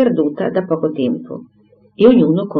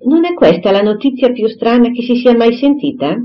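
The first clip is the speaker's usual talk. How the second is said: higher, lively question full of news; eager gossip; 6 semitones higher, 3 dB louder than usual. A narrator's reading. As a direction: bubble over with the news. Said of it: "entrando vivacemente nella camera".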